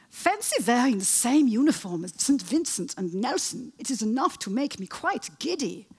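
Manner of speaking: put-on giddy Wilhelm in a comic German accent; comedy German accent. Historian reads Wilhelm's letter about his uniform, in comedy German accent. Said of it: "I'm going to do a German accent".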